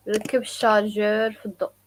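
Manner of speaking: "ركب الشارجور في الضوء" run together quickly; fast natural take. Shown as a demonstration. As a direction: at natural native speed. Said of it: "some people say also".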